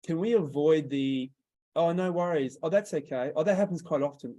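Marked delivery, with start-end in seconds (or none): 1.7-4.3 mock reassuring salesperson. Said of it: "avoid that type of language".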